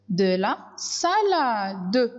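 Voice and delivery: De la salade repeated at normal pitch, slow; slow clear repeat. Shown as a demonstration. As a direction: say it again calmly for the class. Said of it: "second take, lower".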